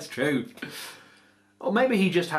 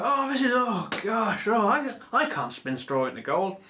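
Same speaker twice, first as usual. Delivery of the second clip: Jessica panicking; 8 semitones higher than usual. Acted. Jessica voiced in retold story.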